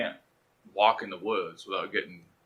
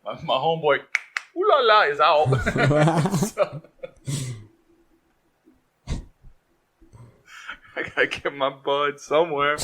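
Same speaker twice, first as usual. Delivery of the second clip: excited stoner; 4 semitones higher, 4 dB louder than usual. Pretend. Desperate stoner voice.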